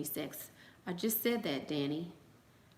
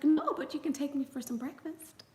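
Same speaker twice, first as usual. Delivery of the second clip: sassy counter; 9 semitones higher than usual. Retold or imitated. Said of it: "I was like".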